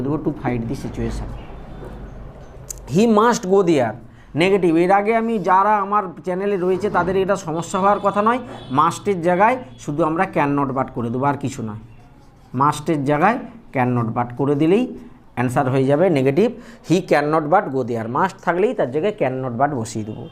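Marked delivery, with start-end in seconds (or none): 2.9-3.9 each word spaced out for copying; slow dictation. Shown as a demonstration. Teacher dictating an example sentence to students, slow and deliberate. 16.9-18.1 each word spaced out for copying; slow dictation. Shown as a demonstration. Teacher dictating an example sentence to students, slow and deliberate.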